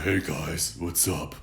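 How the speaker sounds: faked chest-voice greeting; forced deep voice. Shown as a demonstration. Coach showing viewers what not to do, forced-down voice. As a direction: push the voice down unnaturally. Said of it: "you don't wanna force it that way".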